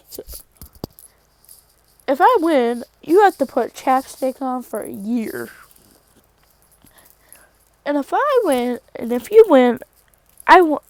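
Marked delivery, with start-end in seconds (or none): 2.1-10.8 loud challenge. Retold or imitated. Deku loudly challenging Shigaraki.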